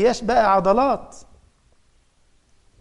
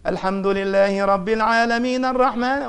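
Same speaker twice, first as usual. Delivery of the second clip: imitating famous sheikhs. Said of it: "بيقلد بقى، بيقلد المشايخ".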